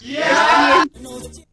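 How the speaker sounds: a slow hurt cry of está bien; wife calls out her bitter consent to leave; long drawn-out shout. Acted. Wife answers being thrown out.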